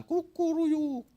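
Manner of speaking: high crowing kukuruyuk, like a cock; rooster crow. Acted. Preacher imitates rooster crow.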